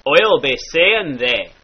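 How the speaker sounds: "thee" said "theh", slowly; short E. Shown as a demonstration. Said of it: "becomes a short E".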